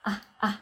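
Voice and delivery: put-on short open "ah, ah", like a baby; baby-like vocalized R. Shown as a demonstration. Coach showing the vocalized R at the end of Herr, baby-like "ah". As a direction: say "ah, ah" as two little baby sounds. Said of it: "das klingt ein bisschen wie ein Baby".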